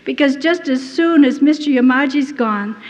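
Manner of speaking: retold panicky prayer, rising in pitch; fearful pleading. Prisoner begging God not to face the hearing room, fearful pleading. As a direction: plead as if recalling real dread. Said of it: "the fear that came over me".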